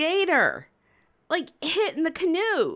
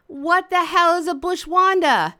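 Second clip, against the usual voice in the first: high, loud incredulous question; loud bafflement; 5 semitones higher, 6 dB louder than usual. Retold or imitated. Storyteller asks guys about bushwandas, loud bafflement. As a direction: demand an explanation in disbelief.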